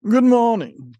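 high squeaky rat voice, badly faked; a hammy little rat squeak; rat impression. Shown as a demonstration. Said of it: "which was another horrible impression".

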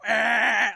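short mock yell; a hammed-up scream. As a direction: yell like an angry face. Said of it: "he's just like".

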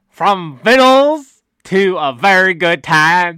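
"vittles" detto alla montanara, con calma; hillbilly voice. Pretend. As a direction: una battuta da campagnolo, lenta e divertita. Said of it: "Do the whole thing".

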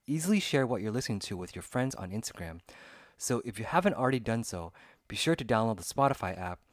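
loud, projected podcast ad read; promo read. Acted. Host urging listeners to follow the podcast, promo read.

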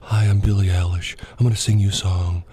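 hushed, whispery singer impression; a famous singer. Shown as a demonstration. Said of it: "every song she does like this".

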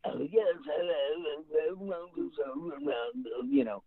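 a hint of a stuffy butler; lightly voiced butler. Shown as a demonstration. Voice actor demos the butler voice he should have remembered, lightly done. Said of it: "Instead of doing".

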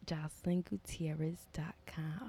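hushed joking whisper. Pretend. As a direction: whisper the plug like a secret. Joking fake website plug.

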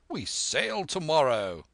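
slow, booming squire announcement; hearty squire. A narrator's reading. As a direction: proclaim it grandly to the boy. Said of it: "says he".

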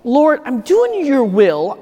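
frustrated prayer. Retold or imitated. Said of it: "And I'm thinking to myself".

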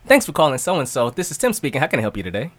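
customer service voice. Shown as a demonstration. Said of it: "be a phone for you to answer".

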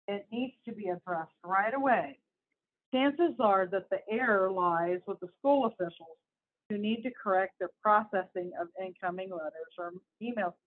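emphatic read-aloud of an article; lightly heightened news-reading voice. Acted. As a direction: read it out to listeners, punching key words.

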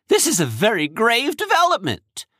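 high, urgent warning. Acted. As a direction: press the danger hard. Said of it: "he said urgently".

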